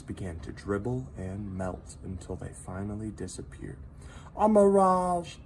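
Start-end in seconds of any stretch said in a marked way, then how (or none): 4.4-5.4 high little voice turned grim; dark salamander voice. A narrator's reading. Minton warning Hector of a mirage, darkly. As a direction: announce it like doom. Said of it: "said Minton darkly".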